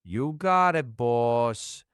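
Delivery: playful attempt at a New York mobster accent. AI voice obliges streamer with a light New York mobster accent. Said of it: "most stereotypical, like, New York mobster accent".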